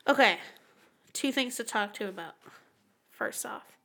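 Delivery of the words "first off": slow, hushed whisper; spooky whisper. Pretend. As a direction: whisper the name like a dark secret. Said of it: "let's get a little bit spooky".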